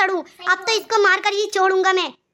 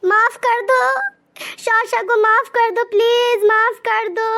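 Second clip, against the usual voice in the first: crying plea; slower than usual. Acted. Friend begs the brother to forgive Sasha, slow and tearful. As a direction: beg slowly as if near tears. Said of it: "कैसे रो रहा है फूट फूट कर".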